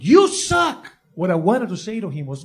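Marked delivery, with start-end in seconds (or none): 0.0-0.9 higher mock heckler shout; heckler yell. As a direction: shout it from the crowd. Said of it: "this guy screamed".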